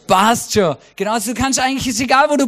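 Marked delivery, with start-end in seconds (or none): 0.1-0.8 Austrian catchphrase. Shown as a demonstration. Preacher teaching a Swiss crowd an Austrian saying, relaxed Austrian drawl. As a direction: say „Passt schon“ the easy Austrian way. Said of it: "die Österreicher lieben es einfach zu sagen".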